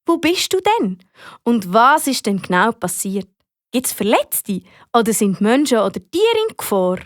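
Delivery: composed emergency operator, asking clearly; calm questioning. Acted. Fire brigade operator asking Amy what happened, calm. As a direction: keep the caller steady with clear questions. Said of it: "bleibt aber ganz ruhig und fragt".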